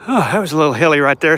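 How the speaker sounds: winded after a hill; catching breath while talking; heavy breathing. Real, not acted. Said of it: "Sorry if I'm breathing hard".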